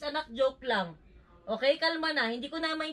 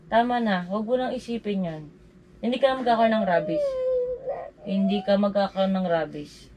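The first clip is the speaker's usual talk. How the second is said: firm reassurance; 3 semitones lower, 6 dB louder than usual. Real, not acted. Mother firmly reassures crying daughter.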